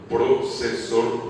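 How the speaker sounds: "Procesor" drawn out, S in place of F; slow "Procesor", as a speaker without F says it. Shown as a demonstration. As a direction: say "Procesor" slowly with an S for the F. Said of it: "No puede pronunciar ese fonema".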